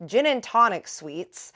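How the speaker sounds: a touch of a randy grandpa; cheeky old man. Retold or imitated. Grandpa flirts with waitress.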